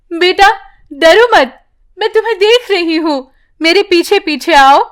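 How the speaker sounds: mother guiding her daughter through the flood; mother calling out. Acted. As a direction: call to your child over rushing water.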